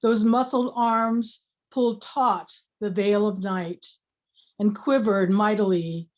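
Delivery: slow, deliberate poetry recital; measured reading of an elegy; poem reading. Acted. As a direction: draw out the line endings, pausing between phrases.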